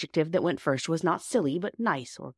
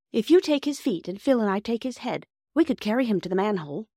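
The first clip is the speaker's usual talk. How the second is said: Peter; 6 semitones higher than usual. A narrator's reading. Narrator voices Peter planning.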